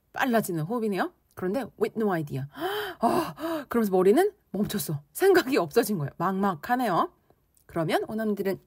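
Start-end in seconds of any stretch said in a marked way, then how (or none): 2.5-2.9 short, high, soft gasp; fast angry breath. Shown as a demonstration. Teacher acting out fast breath with no idea, angry gasp. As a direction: demonstrate a quick breath of anger. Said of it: "fast breath".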